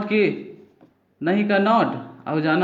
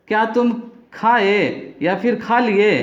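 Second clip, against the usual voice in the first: slow model question; slower than usual. Shown as a demonstration. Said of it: "question कैसे करना है देखिए".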